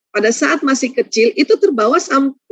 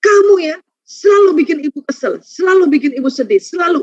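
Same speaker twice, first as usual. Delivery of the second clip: put-on a mother scolding her child, raised and reproachful; mock scolding mother; 3 semitones higher than usual. Mother confronting her child, mock angry scolding. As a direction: nag the child with each selalu. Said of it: "kita langsung melabrak".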